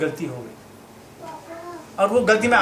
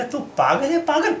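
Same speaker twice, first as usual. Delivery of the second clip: heated and higher-pitched, laughing through it; mock argument, pitched up with laughter; raised voice; 4 semitones higher than usual. Arguing with the temple man over the Gita, voice rising. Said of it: "आवाज़ थोड़ी तेज हो गई".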